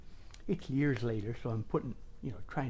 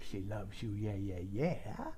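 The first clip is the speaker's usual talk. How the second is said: quiet; 5 semitones lower, 7 dB quieter than usual. Shown as a demonstration. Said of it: "that was puppy love".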